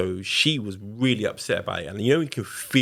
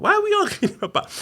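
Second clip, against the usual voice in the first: laughing disbelief; 5 dB louder, faster than usual. Retold or imitated.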